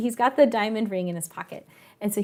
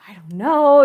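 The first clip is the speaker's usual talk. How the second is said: mock reluctant, louder sigh of doubt; huffy attitude; 6 dB louder than usual. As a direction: imitate a sulky, grudging girlfriend. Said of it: "this attitude from her".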